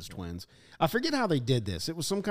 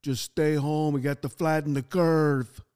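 hammed-up Austrian accent, slowing at the end; rough Austrian accent impression; Arnold Schwarzenegger; slower than usual. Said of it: "that's a horrible a-, accent".

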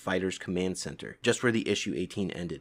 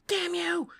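angry cry. Acted. The princess curses Krang.

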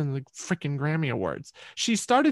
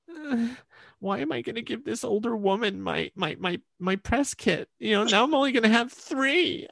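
mildly whiny inner protest, higher pitched; reluctant; 5 semitones higher than usual. Retold or imitated. Musician balking inwardly at giving away a press kit, reluctant. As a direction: stammer in reluctance over giving it up.

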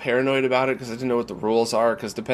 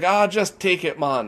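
put-on higher-pitched Jamaican accent, giving in; 6 semitones higher, slower than usual. Dealer gives up haggling with tourist, Jamaican accent. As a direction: wave it away in a Jamaican accent. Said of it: "that Jamaican accent you did".

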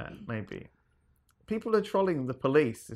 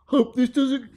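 mock sweet voice; 11 semitones higher, 9 dB louder than usual. Mock reading prank note.

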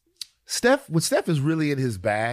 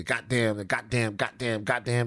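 Atlanta goddamn; 4 semitones lower, 4 dB quieter than usual. Retold or imitated. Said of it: "They say that a lot".

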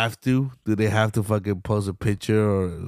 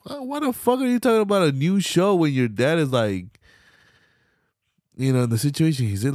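high, louder, exasperated rant; incredulous outburst; 6 semitones higher, 3 dB louder than usual. Retold or imitated. Vlogger reacting to the daughter's promo, high exasperated outburst. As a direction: fire back in disbelief. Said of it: "And I'm like".

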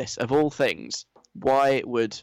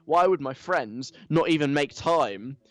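entitled whiny influencer; 2 semitones higher than usual. Retold or imitated. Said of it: "the sort of very entitled, whiny".

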